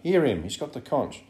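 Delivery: loud, high call for order; shouting. A narrator's reading. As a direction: shout over the uproar to demand a hearing. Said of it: "Ralph shouted".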